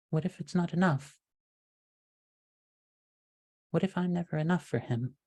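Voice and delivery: fretting and unsure, voice lifted and fading; gentle and anxious. Acted. Gertrude to the villain, gentle and anxious. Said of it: "in a much more gentle and much more anxious voice".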